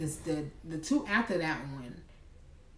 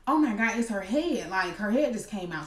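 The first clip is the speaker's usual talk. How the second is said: louder, higher shocked cry of the nurse; startled nurse exclaiming; 4 semitones higher, 4 dB louder than usual. Retold or imitated. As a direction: blurt it out like a nurse caught off guard. Older nurse sees baby's head.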